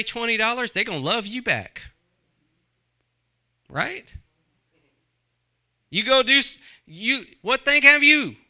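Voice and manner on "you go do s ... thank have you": louder, higher, hammering the question; loud preaching. Shown as a demonstration. Preacher challenges the congregation, loud and high. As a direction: throw the question at the crowd. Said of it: "but I would say".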